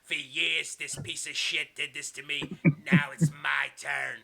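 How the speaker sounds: lightly voiced villain, slow and deliberate; a touch of menace, stretching out the words; mock tough-guy threat; Kevin Sullivan. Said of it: "Kevin Sullivan goes".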